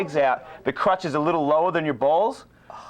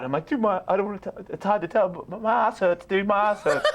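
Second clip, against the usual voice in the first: high, whiny worried plea; near-tearful begging for an answer; a hungover guy pleading with his friend, whining; mock distressed pleading; 5 semitones higher than usual.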